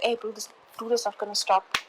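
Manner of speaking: hushed aside to oneself; inner grumble. Retold or imitated. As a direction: softly grumble in resignation. Inner grumble about persistent greeter.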